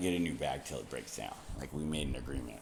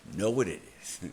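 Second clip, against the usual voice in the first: louder and higher, insisting; emphatic repeat; 4 semitones higher, 5 dB louder, faster than usual. Retold or imitated. Retold rant at karma, louder insistent repeat. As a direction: hit it harder the second time.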